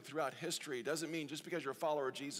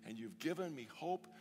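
grateful prayer; 2 semitones higher than usual. Acted. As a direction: thank God, drawing out the words. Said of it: "we have an attitude of gratitude".

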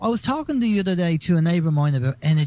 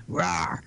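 mock growl; 12 semitones lower, 6 dB quieter than usual. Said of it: "we attack back and we just go".

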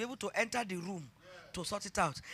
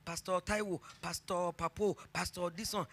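eager daughter; 3 semitones lower, 7 dB quieter than usual. Retold or imitated. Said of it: "she said".

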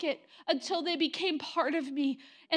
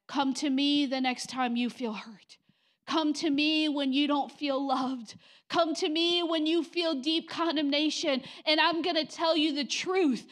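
tender voice of God; 2 semitones lower than usual. Retold or imitated.

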